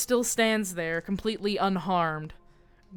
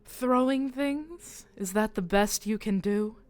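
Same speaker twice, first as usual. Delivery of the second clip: mocking taunt; 2 semitones higher than usual. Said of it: "She laughs and points at Khaled and just goes".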